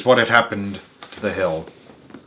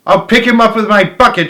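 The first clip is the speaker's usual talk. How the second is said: higher, louder eager shout; gleeful shout; 8 semitones higher, 6 dB louder than usual. A narrator's reading. Bunce shouts from his machine, higher and louder. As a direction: crow over the hunt. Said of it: "shouted Bunce".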